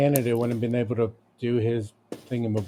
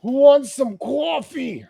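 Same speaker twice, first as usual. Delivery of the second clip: announcer voice; 11 semitones higher, 3 dB louder, slower than usual. Acted. Hammed-up coffee pitch.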